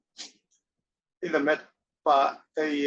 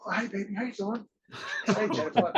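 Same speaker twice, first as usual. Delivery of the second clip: laughing mock greeting; 6 semitones higher than usual. Imitating Lopez greeting, laughing.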